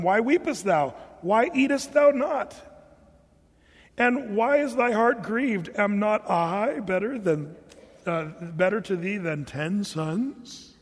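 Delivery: put-on slow, old-fashioned King James reading; Elkanah's words. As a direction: read it out slowly like an old Bible husband. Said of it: "So, so he says".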